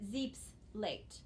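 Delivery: "zeep's late" with the s closing "zeep's"; split as zeep's late. Shown as a demonstration. Teacher shows the other line division, "zeep's late" split after the s. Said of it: "you would just pronounce it".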